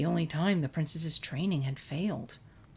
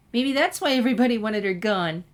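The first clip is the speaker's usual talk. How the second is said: giggled; 5 semitones higher, 6 dB louder than usual. A narrator's reading. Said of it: "giggled Pinkie Pie".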